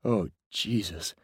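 put-on shocked oath in an Alabama accent. A narrator's reading. Actor playing Edgar sees the collapse, Alabama accent. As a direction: let the Alabama accent come out. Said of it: "now sounded as if he were from Alabama".

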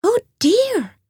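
high worried oh dear; Grey Rabbit hearing about the weasel, high and dismayed; mild alarm. A narrator's reading. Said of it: "replied Grey Rabbit".

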